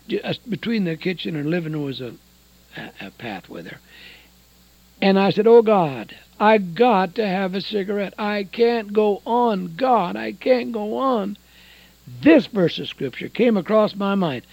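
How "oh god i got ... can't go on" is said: retold desperate cry to God, slowing down; desperate plea. Smoker begging God for a cigarette, desperate plea. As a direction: plead with God, dragging out the last words.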